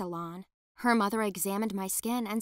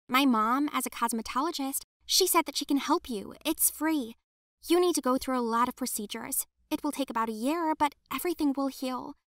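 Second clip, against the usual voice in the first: put-on higher, quick eager young girl's voice; 4 semitones higher than usual. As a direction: sell the offer, hopeful and fast. Betty offers help.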